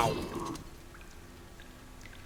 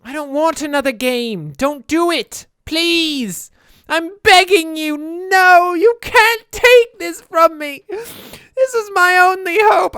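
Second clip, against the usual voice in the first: high, loud mock pleading; dramatic yelling; 9 semitones higher, 6 dB louder, slower than usual. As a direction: beg in an overblown wail. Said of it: "I don't know what I'm yelling about anymore".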